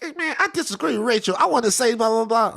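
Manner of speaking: high, quick mock complainer; imitating a complaining listener. Host imitating listeners who want at his co-host, mock complaining.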